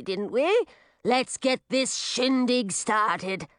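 a hint of a cheerful old witch; lightly voiced jolly witch. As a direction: chivvy them into the party, slowing at the end. Oculura jokes to start party.

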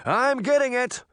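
high, strained shouted reply. A narrator's reading. Cameraman answering the panicking reporter, shouted. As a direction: shout back in alarm. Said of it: "the cameraman shouted".

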